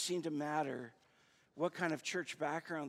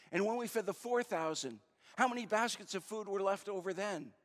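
higher, firmly pressed question; mildly frustrated; 5 semitones higher, 4 dB louder than usual. Acted. Jesus pressing his disciples with a second question, mildly frustrated. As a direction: drill them with mild exasperation. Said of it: "he gets frustrated".

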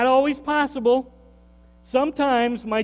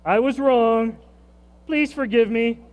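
sincere apology; 4 semitones higher, 4 dB louder than usual. Shown as a demonstration. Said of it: "now let them do it to you".

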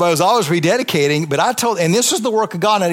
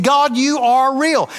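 exclaimed revelation; 6 semitones higher, slower than usual. Retold or imitated. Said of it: "that's why I said".

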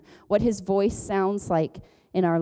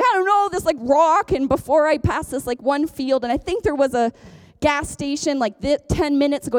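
higher-pitched, rambling recall; lightly acted fluster of someone lost; mock flustered caller; 5 semitones higher than usual. Acts herself lost on phone.

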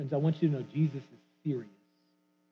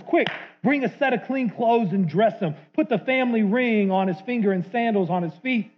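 higher and louder, a father bursting with joy; joyful father; 3 semitones higher, 4 dB louder than usual. Retold or imitated. Father shouting to his servants, joyful and loud. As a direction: call out the feast like an overjoyed dad.

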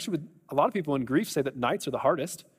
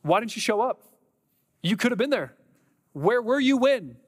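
anguished cry to God; 3 semitones higher than usual. Acted. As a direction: cry out to God, pitch climbing as you go. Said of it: "stopped and cried out".

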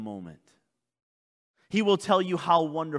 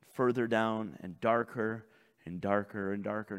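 much lower, softer voice; sinking low and quiet; 7 semitones lower, 6 dB quieter than usual. Real, not acted. Pastor describing a descent into darkness, low and hushed. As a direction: let the voice sink into the depths.

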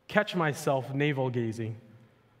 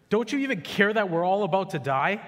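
a mild plea raised higher inside the reading; read disciples' plea; 5 semitones higher, 4 dB louder than usual. Acted. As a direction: voice the frightened disciples lightly. Disciples' line read from scripture.

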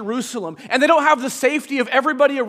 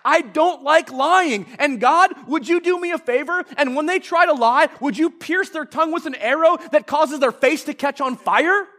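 mock psalmist complaint; 3 semitones higher than usual. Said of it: "So here's what he says".

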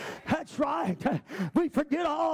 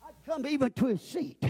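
quiet plea; 5 semitones higher, 4 dB quieter than usual. Acted. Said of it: "But Job said".

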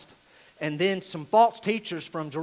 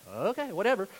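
dismissive, slightly raised pitch; offhand shrug; 3 semitones higher than usual. Acted. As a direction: brush it off as no big deal. Disciples shrug off the teaching.

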